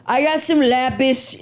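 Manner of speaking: mock dude boast. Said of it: "you were like".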